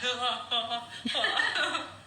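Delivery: drawn-out, wordless laughing "oh"; awkward groaning laugh. Retold or imitated. Acting out watching her own intimate scene, awkward laughing noise. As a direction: let out a long embarrassed laugh-sound. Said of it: "So I'm like".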